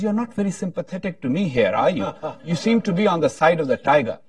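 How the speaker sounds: mock-hurt complaint through laughter; laughing complaint. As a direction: chuckle through the punchline. Joke punchline, guy complains laughing.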